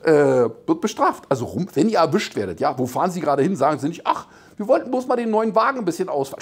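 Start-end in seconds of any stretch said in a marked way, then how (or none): 4.1-6.4 quick, higher-pitched breezy excuse; innocent driver excuse. Acted. Driver excusing a joyride to police, breezily innocent. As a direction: chirp it off hastily as a harmless outing.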